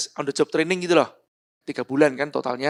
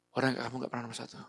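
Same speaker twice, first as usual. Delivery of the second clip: much softer and faster, brooding; near-whispered replay; 4 semitones lower, 12 dB quieter, much faster than usual. Retold or imitated. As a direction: echo the insult to yourself under your breath. Repeating the insult in his head.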